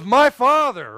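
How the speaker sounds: lightly voiced boy calling his father. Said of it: "And he goes".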